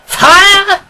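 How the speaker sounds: high, loud cry of alarm; a sharp high shout of fire. A narrator's reading. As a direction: yell it to raise the alarm. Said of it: "with a cry of".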